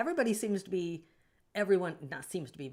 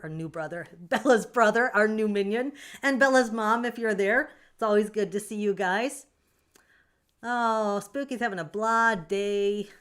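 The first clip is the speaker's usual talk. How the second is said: louder, bright welcome to arriving viewers; excited greeting; 3 semitones higher, 9 dB louder than usual. Real, not acted. Streamer loudly welcoming Bella and family in chat, excited.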